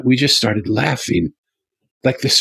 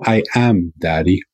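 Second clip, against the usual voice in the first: perfect English; 3 semitones lower than usual. Retold or imitated. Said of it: "And in perfect English, unlike any English".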